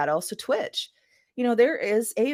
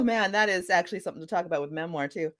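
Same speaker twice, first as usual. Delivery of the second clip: whisper; 2 semitones lower, faster than usual. Real, not acted. Aside remembering memoir point.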